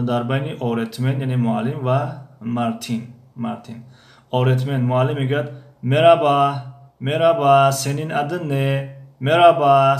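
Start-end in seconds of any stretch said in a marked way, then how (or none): 5.8-10.0 loud greeting. Acted. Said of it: "teacher voices greeting loudly".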